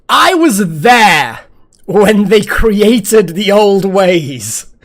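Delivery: slow, booming, solemn proclamation; ancient elder voice. Pretend. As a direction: intone it like an ageless sage. Grandiose ancient-elder quote.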